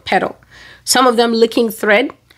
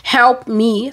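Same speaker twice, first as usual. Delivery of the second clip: mild mock cry for help, pitched up; higher, re-enacted plea; retold scream; 4 semitones higher than usual. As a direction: call out for help without full volume. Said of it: "I started screaming".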